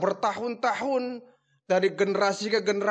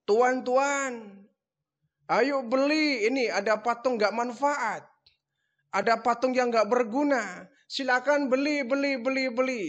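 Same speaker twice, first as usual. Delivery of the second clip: calling out wares; 6 semitones higher than usual. Retold or imitated. Ibrahim calls to villagers, a hawker's high cry. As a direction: hawk the idols to passers-by. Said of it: "Nabi Ibrahim teriaknya".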